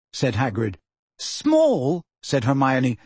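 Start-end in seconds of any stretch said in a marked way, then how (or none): 1.2-2.0 "Small?" raised in surprise, rising; incredulous. A narrator's reading. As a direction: echo "Small?" in disbelief. Hermione echoing in disbelief.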